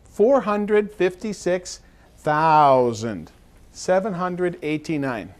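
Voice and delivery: slow, careful read of the number; slow demo reading. Shown as a demonstration. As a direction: read it out slowly and clearly.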